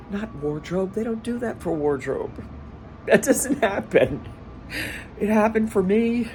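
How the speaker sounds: high, tearful voice; real teary disbelief, close to crying; choked up. Real, not acted. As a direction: fight back tears, voice lifted high. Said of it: "he's not crying".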